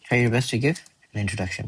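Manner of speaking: slow and spelled out for note-taking; slow dictation. Shown as a demonstration. Teacher dictating the line slowly to students. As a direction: give each word time so they can write it. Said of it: "এটা কি লিখছি?".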